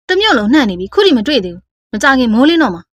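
mildly angry, emphatic complaint; understated anger of a boss. Acted. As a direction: let frustration punch the key words. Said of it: "ဦးမိုးရဲ့ဒေါသတကြီးပြောသံကြောင့်".

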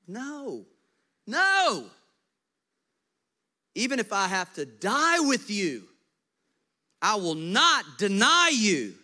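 high, loud, insistent denial; a cocky friend who won't hear otherwise; protesting Peter. Retold or imitated. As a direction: swear it with everything you have.

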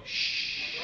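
soft unvoiced shush. Shown as a demonstration. Driver shushing cop with finger, whispered. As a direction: hush him like a secret. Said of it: "and go".

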